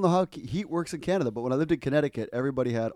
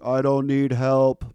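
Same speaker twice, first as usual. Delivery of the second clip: insistent; 10 dB louder, much slower than usual. Retold or imitated. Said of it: "he's like".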